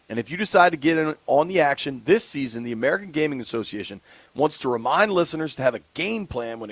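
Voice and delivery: upbeat host-read sponsor spot; radio ad read. Acted. Live read of responsible gaming ad.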